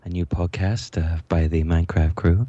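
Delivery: slightly creepy radio host voice; a lightly creepy radio announcer. Acted. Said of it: "that was my slightly creepy, uh, radio announcer voice".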